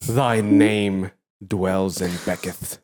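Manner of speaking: slow, drawn-out bardic pomp; mock-grand herald. Answering say your name, slow grand proclamation. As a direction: intone it like an old legend.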